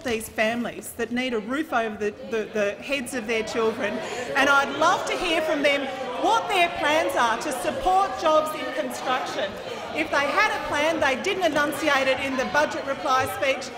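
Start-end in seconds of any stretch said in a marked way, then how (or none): 4.4-13.7 raised, forceful. Real, not acted. Minister attacking opposition's lack of plans.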